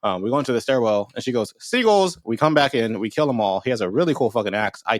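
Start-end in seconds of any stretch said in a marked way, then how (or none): 1.6-2.2 high-pitched, drawn-up imitation of a call; mock call-out. She calls into the stairwell in recap, high mock call. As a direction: call it out as the character would.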